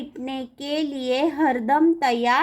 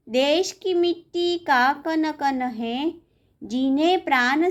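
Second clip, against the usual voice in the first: poem recitation. Acted. Teacher reading a patriotic poem to pupils, measured recitation. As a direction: recite line by line, pausing after each phrase.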